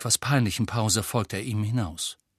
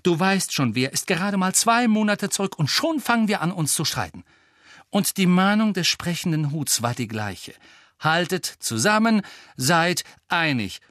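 higher and louder, pressing every point; loudly insistent; 8 semitones higher, 4 dB louder than usual. Acted. Hermine lecturing Ron and Harry, loud and insistent. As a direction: drive the warning home, louder. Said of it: "fuhr Hermine lautstark fort".

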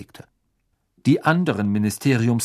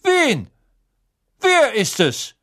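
doubtful; 13 semitones higher, 5 dB louder, slower than usual. Acted. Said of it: "mit zweifelndem Unterton".

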